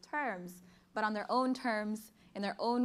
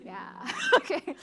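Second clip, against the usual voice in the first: high, slow laughing okay; teary laugh; 8 semitones higher, 5 dB louder, slower than usual. Real, not acted. Speaker laughing off her tears before the poem. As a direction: laugh it off after crying.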